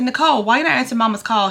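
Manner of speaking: quick, pointed question; scolding sister. Pretend. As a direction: press her, fed up. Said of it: "I said".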